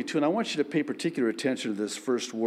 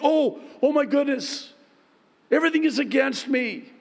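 panicky believer; 13 semitones higher, 3 dB louder, faster than usual. Retold or imitated. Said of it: "Never think".

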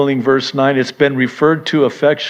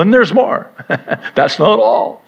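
infomercial pitch; 10 semitones higher, 5 dB louder than usual. Pretend. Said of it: "sounds like an infomercial".

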